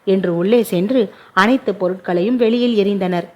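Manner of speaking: plain reading voice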